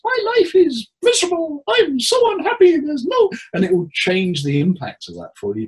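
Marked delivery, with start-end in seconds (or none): 0.0-3.3 much higher, louder squeaky cartoon voice; cartoon character voice. Shown as a demonstration. Therapist shows client a cartoon voice, very high. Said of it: "in a cartoon character's voice".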